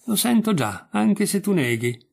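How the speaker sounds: a hint of trembling fear. A narrator's reading. The starving dog to the hunter, trembling. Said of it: "dissi tremando".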